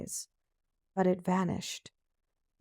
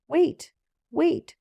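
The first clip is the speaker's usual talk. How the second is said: higher calling out, wait wait; calling after her; 9 semitones higher, 4 dB louder than usual. Acted. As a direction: call out after her, a little louder. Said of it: "said the frog".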